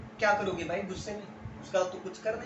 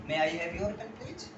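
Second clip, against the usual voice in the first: "May I have your pen please" spoken slowly and softer; slow formal request; 4 semitones lower, 5 dB quieter, much slower than usual. Shown as a demonstration. Teacher urging friends to ask formally. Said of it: "थोड़ा सा formally करो यार".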